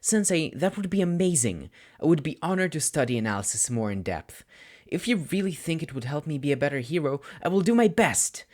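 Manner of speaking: put-on bursting with childish delight; excited student. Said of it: "the excited vibration again, back in full force".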